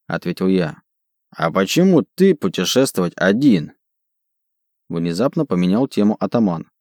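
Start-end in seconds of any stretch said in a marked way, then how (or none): 1.4-3.7 halting brute asking; broken Dwarvish. Acted. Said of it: "на ломаном языке гномов".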